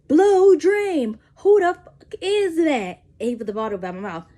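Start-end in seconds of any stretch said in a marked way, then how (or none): 0.1-3.0 loud, much higher, slow repeat of the demand; mock angry interrogation, again. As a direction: press harder like a jealous interrogator.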